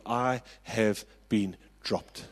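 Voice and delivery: "I have been dropped" said slowly, each word weighted; slow heavy words. Retold or imitated. Boy telling his dad on the phone, slow and heavy. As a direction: let the bad news land slowly. Retold devastating phone call.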